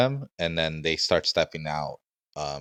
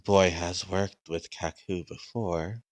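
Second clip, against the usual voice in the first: slow, deliberate guard voice; measured, drawn-out servant speaking; creepy guard; slower than usual. Acted. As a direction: speak slowly as a strange gatekeeper. Game master voices the gate guard.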